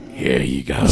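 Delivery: deep low mumbling voice. Retold or imitated. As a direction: drop way down for the handoff. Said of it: "he's like".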